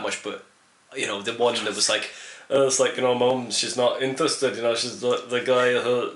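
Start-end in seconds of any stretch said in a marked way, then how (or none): 3.1-6.1 badly faked Scottish accent; terrible Scottish accent. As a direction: attempt a Scot and barely get there. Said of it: "that's a terrible accent".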